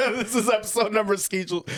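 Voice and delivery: "schedule" said as "skeʒl" in a put-on accent; a jokey foreign "schedule"; odd accent on schedule. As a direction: mangle "schedule" with a mock accent. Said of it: "What kind of accent was that?".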